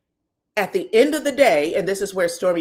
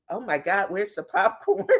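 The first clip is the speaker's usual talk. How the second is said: gleeful popcorn quip. Retold or imitated. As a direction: giggle it out like you're enjoying a show. Teammates gleeful at the drama.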